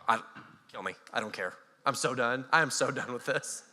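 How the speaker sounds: low, soft, deflated; done Joshua. Retold or imitated. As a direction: sigh it out, totally done. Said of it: "He's like".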